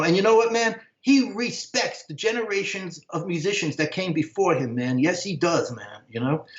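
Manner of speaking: a hint of a proud bandleader bragging about his friend; a musician raving. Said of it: "he goes".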